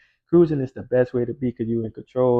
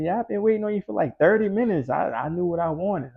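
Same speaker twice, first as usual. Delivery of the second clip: put-on light higher girlish voice, lightly done; girl's voice; 6 semitones higher than usual. Gym girl telling Evan she waited, lightly higher.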